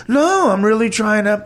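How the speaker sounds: arrogant rich guy. Retold or imitated. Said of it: "he has an arrogant rich guy way of talking".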